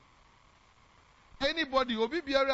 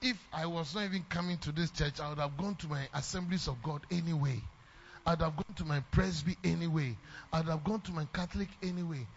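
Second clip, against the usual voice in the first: mocking ungrateful member; 4 semitones lower, 5 dB quieter than usual. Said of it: "some of us who say that".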